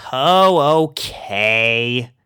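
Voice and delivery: loud reluctant give-in; resigned groan. A narrator's reading. Rainbow giving in to the pugs, reluctant groan. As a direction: drag it out, defeated. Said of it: "she groaned".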